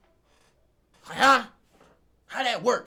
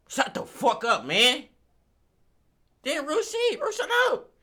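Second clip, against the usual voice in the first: fed-up yell, louder and higher; hammed-up angry outburst; mock yell; 8 semitones higher, 6 dB louder, slower than usual. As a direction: snap back loudly as if fed up. Mock yelling at mom.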